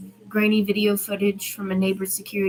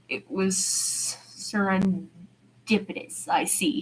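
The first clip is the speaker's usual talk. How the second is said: teasing; much slower than usual. Acted. Man teasing Arya about the apology, whispered teasing. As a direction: needle her gently. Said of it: "he teases".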